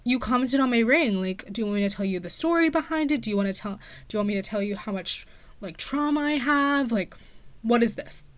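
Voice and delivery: unload on her in disbelief; exasperated outburst. Retold or imitated. Angry retort to the neurologist.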